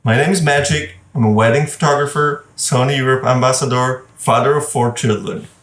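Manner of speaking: upbeat self-introduction; intro pitch. Shown as a demonstration. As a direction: deliver your intro like a promo. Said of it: "it goes like that".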